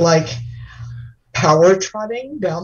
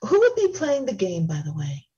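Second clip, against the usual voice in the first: delicate femme voice. Acted. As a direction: gush sweetly like a dainty socialite. Same dainty character.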